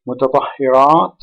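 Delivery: "Mutatahhirat" stressed on a long final RAT; final-syllable stress. Shown as a demonstration. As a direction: lean on the last syllable of "Mutatahhirat". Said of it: "stressed on the last syllable".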